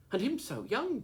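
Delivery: high, loud, dismayed cry; a distressed exclamation; pitying cry. A narrator's reading. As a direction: cry out in pity for the boy. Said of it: "cries the lass".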